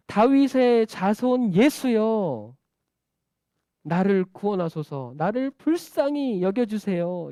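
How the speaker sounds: slow, beseeching call for mercy; crying out. Acted. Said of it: "이렇게 소리 지르는 거예요".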